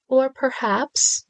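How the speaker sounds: high, slow, stretched Or perhaps; drawn-out vowels. A narrator's reading. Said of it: "stretching out his vowels".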